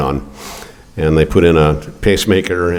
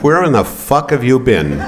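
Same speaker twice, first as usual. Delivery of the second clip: high mock-mother demand with a laugh; mom demanding; 7 semitones higher than usual. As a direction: play the outraged mom, laughing through it. Mom demanding, first time.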